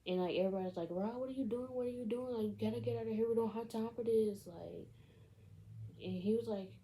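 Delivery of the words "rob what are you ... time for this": higher-pitched imitation of exasperated friends; mock urgent protest. Everybody telling Rob to get out of here, mock urgent protest. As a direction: urge him along in a lightly acted voice.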